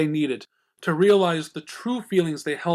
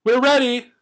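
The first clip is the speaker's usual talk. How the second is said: eager; 9 semitones higher, 6 dB louder than usual. A narrator's reading. Pinkie bouncing, eager.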